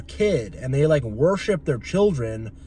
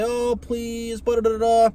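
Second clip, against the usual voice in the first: begging; 5 semitones higher than usual. Retold or imitated. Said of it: "you start to beg and you say".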